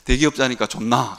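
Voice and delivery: asking casually in a Gyeongsang dialect; a pastor's Gyeongsang-dialect question to an office worker. Retold or imitated. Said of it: "경상도 말로 할게요".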